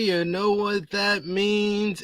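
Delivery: slow, high showman intro; hype intro. Acted. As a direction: build up the show opening. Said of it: "podcast intro hype".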